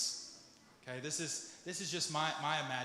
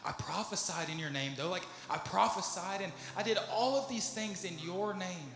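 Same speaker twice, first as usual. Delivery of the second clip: distressed pleading, rising higher as it builds; pleading their case; 3 semitones higher than usual. Acted. Rejected churchgoer pleading with God at the throne, increasingly distressed. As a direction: plead in mounting disbelief, without real crying. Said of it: "they're crying and they're trying to plead their case".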